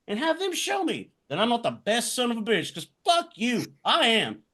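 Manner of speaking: heated promo-style rant, no holding back; defiant rant. Pretend. Podcast host cutting a wrestling promo, defiant and heated. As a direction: spit defiance at doubters.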